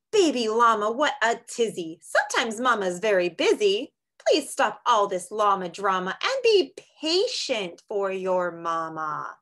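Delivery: a hint of a patient mother; lightly voiced mama llama. Mama llama scolds in story.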